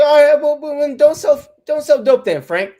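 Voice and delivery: high, loud mock British accent; Idris Elba. Showing Idris Elba's real voice, exaggerated British accent. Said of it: "that's what he really sounds like".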